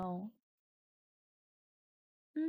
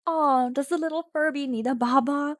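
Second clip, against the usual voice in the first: mean girl mocking; 5 semitones higher, 8 dB louder than usual. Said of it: "Laughs the mean girl".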